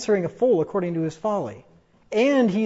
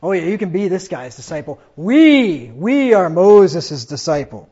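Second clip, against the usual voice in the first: scornful, slow and louder on we are Moses' disciple; sneering at the blind man, louder scornful mockery; reviling sneer; 5 dB louder than usual. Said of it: "Then they reviled him".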